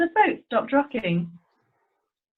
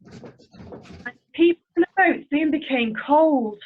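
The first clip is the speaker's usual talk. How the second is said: storybook voice building with the storm; story narration. A narrator's reading. Narrator describing the growing storm to children, building tension. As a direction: tell the storm rising, a little more urgent.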